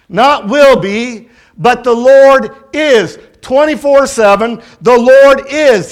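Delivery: emphatic preacher's cadence with drawn-out key words; impassioned preaching. Real, not acted. Preacher urging friends that the Lord is present tense, impassioned. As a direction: preach it in deliberate, punched phrases.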